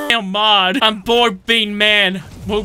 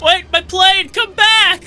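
calling out; 8 semitones higher, 4 dB louder than usual. Real, not acted. Calling after his plane.

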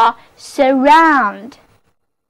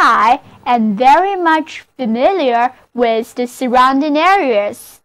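repeated model reading. Shown as a demonstration. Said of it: "就是".

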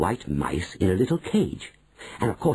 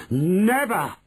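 higher sharp cry of protest; cried out; 9 semitones higher than usual. A narrator's reading. Manager to grandmother, a higher cry of protest. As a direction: protest at once, pitched up. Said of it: "cried Mister Stringer".

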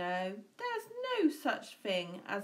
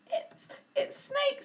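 nervous stammer; 4 dB louder than usual. Acted. Mouse spots snake.

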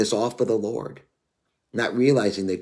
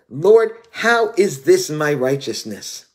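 protest; 4 semitones higher, 5 dB louder, slower than usual. Retold or imitated. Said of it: "I said".

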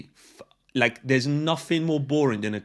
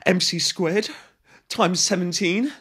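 mocking; 5 semitones higher, 4 dB louder than usual. Real, not acted. Mocking equation on window.

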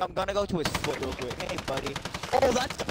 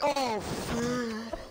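voice crack. Acted. Joking about Godzilla charging his vape, voice cracking. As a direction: voice cracks on a laughing exclamation. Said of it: "Fucking voice crack".

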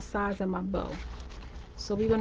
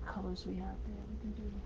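hoarse, fading voice; raspy and worn out; losing voice; 17 dB quieter, faster than usual. Real, not acted. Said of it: "I'm losing my voice a little bit".

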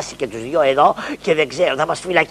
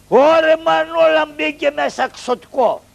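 startled; 10 semitones higher than usual. Acted. Frightened exclamation.

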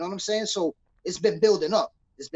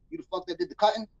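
understated, offhand question in retelling; nonchalant; 4 dB quieter, faster than usual. Retold or imitated. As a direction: imitate a guard asking casually in passing. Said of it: "very nonchalantly".

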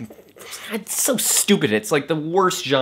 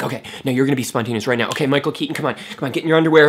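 mock director; 3 semitones higher, 5 dB louder, much faster than usual.

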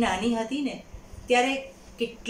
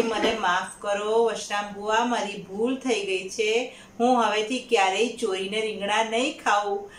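scared pleading. Acted. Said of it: "બહુ જ ગભરાઈ ગયા".

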